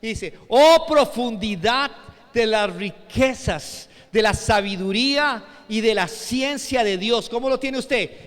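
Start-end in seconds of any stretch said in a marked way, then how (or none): 0.5-7.3 loud, drawn-out opening exclamation; exclamation of wonder. Retold or imitated. Preacher reading the apostle Pablo to the congregation, exclaiming in wonder. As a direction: recite it in solemn awe. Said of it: "En signos de admiración".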